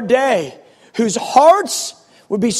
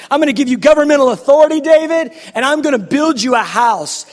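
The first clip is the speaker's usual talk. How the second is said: louder, fast, rising proclamation; proclaiming God's promise; 3 semitones higher, 3 dB louder, faster than usual. Retold or imitated. God promising David a house, proclaiming. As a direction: declare it like a decree. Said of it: "the Lord's going".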